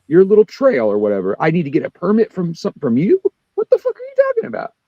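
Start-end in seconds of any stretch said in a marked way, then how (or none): 3.5-4.7 high pitched furious yell; angry outburst. Retold or imitated. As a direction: shout it in disbelief. Retold argument with official.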